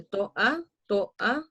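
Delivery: "to a" linked as one syllable, repeated; sinalefa. Shown as a demonstration. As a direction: join the vowels of "to a". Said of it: "tres sinalefas".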